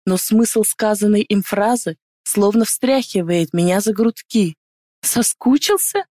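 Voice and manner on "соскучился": mocking scoff. A narrator's reading. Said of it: "Усмехаюсь".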